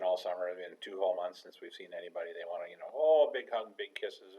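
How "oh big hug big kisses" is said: put-on excited kid. Students wanting hugs.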